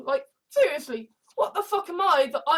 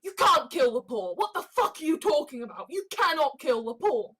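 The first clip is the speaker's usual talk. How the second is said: indignant shout. Retold or imitated. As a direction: bark it like a protester at a rally. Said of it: "Every day saying".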